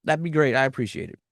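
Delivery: soft, unenthused sure-whatever; unenthused mumble. Retold or imitated. Aubrey brushing off her friend's promise, soft and unenthused. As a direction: brush it off half-heartedly. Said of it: "Aubrey's like".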